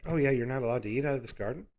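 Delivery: quick offhand lie, fast; slipping it in. Retold or imitated. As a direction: toss it off casually, a sly aside. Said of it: "slip it in there, like".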